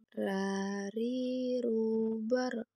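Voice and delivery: "Ra, ri, ru, bar" mengalun, r "bar" tebal; tebal dan tipis. Shown as a demonstration. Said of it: "maka suara terdengar menebal". (r menebal pada "bar")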